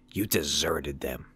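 slow cutting whisper; whispered accusation. Acted. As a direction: hiss the charge at him. Parker's scornful last line.

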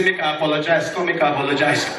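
low, lazy grudging apology; a hint of a sulky boyfriend; mock apology. Mimics guys' grudging apology.

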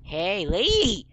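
long, loud, high holler; calling out. Real, not acted. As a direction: shout to get someone's attention across the street. Calling to a woman in game.

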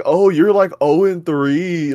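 slow, drawn-out mocking impression of the dude; imitating the dude. Mimicking the annoying gamer who taunted him, slow and mocking. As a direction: stretch oh and three out like the gamer who talks that way. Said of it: "that's how that dude talks".

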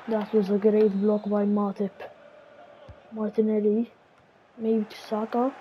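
lively TV match commentary; mock football commentator calling the match; play-by-play commentary. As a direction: call the action like a broadcaster. Self-commentating a football game.

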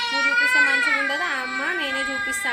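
high, loud mock of the daughter's insisting; imitating daughter. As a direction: play the girl insisting she shows it herself. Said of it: "ఆమెనే చూపిస్తుందంట". (కూతురిని అనుకరిస్తూ ఎత్తైన గొంతుతో)

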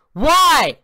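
high, loud wail; anguished yell. Real, not acted. Gamer wailing at another death. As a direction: cry out to the game. Repeated failure.

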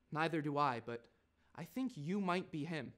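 understated, lightly posh reply; posh little kid. Acted. Kid answering Nigel's denial, understated posh little voice. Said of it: "listen to this. Then he go".

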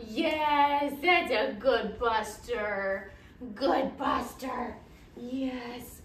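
slow, drawn-out pet talk; stretched-out praise for a good dog; doting praise. Real, not acted. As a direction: croon slowly to a beloved dog.

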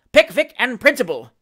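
high, loud outburst; very audible exclamation. A narrator's reading. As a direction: call it out for all to hear. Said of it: "in a very audible voice".

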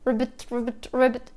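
ribbit, ribbit said softly, as if imagining it; imagining a frog. Shown as a demonstration. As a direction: quietly croak ribbit. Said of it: "imagined the sound of a frog".

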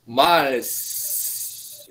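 MILES with a very long final S; modelled final s. Shown as a demonstration. Teacher corrects student's word, drawn-out final s. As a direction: hold the hiss at the end of "Miles". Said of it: "Just a moment".

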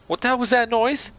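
high startled goofy yelp; freaked-out cartoon dog voice. Real, not acted. Scared gamer accidentally sounding like Goofy. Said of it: "can you please do the Goofy impression".

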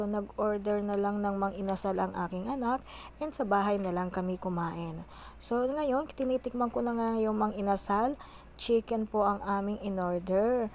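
talking while chewing food; eating with hands while speaking; mouth full, chewing. Real, not acted. Seen 0: Hand-feeds rice and chicken to mouth, talks while chewing throughout.

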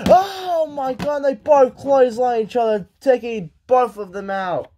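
big exclamations over each hit; energetic wrestling commentator; excited play-by-play. Acted. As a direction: call the collision with amazement. Live play-by-play, clotheslines.

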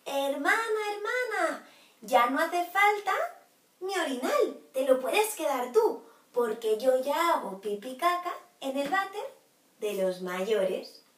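loud proud call to his sister; calling out happily. Acted. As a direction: shout the good news to his sister. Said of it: "le gritó a su hermana". (perrito grita orgulloso a su hermana)

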